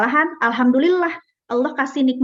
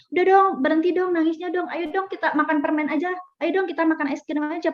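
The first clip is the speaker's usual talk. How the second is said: coaxing parent; 5 semitones higher than usual. Retold or imitated. Parent coaxing a crying child.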